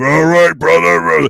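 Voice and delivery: loud, rough wrestler-style bark. Imitating a radio co-host's voice, which sounds like Hulk Hogan. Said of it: "one of these voices where he's like".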